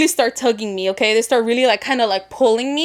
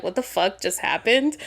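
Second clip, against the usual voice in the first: stunned; 4 semitones lower, 5 dB quieter than usual. Retold or imitated. Imagined stunned onlooker in car.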